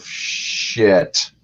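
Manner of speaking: breathless whispered oath; whispered curse. Retold or imitated. Tanis caught out, whispered curse. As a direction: mutter it under your breath in dismay.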